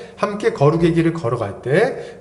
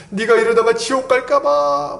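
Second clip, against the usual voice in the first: higher, weepy "지옥 갈까봐"; a friend tearfully worried for you; mock tearful imitation of a friend; crying plea; 8 semitones higher than usual. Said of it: "막 이렇게 우는 거".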